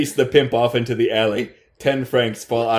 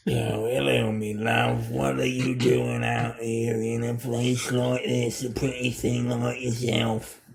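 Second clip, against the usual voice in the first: lightly voiced old crone, soft and sly; a hint of a creepy old hag luring her in; 3 semitones lower, 5 dB quieter than usual. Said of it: "the crone's mouth".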